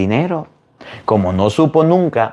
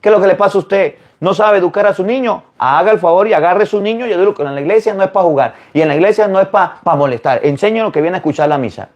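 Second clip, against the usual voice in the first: retold scolding, higher and fast; priest's scolding; 6 semitones higher, faster than usual. Priest telling off a mother over her noisy child, scolding. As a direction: tick her off in a raised pitch.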